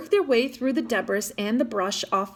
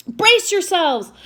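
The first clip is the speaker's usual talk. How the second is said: high, loud, slow warning shout; yelled warning; 7 semitones higher, 6 dB louder, slower than usual. Acted. Twin yelling a warning to the crew before the boat hits, loud and slow. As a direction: brace them for the impact. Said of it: "one of the Gibbs yelled out".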